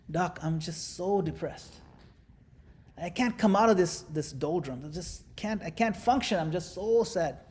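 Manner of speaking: slow, sagging mopey voice; mock depressed patient. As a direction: droop the words like a sad patient. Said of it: "bent over like this".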